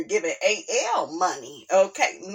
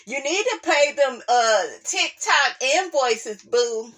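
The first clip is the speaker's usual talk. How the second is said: sassy higher mock voice; 5 semitones higher than usual. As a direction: mimic her telling him off. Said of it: "that make me think of a rapper".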